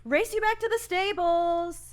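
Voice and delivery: playful challenge. Acted. Calls out as she rides off.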